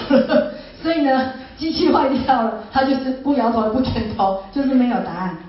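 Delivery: amused laugh at the broken machine in the dream. Real, not acted. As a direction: chuckle as it all makes sense. Laughing at her own dream.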